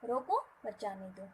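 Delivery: रोको set off, then मत जाने दो run together; pause after रोको. Shown as a demonstration. Teacher repeating the line with its comma, pause after रोको. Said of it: "एक simple से कॉमा".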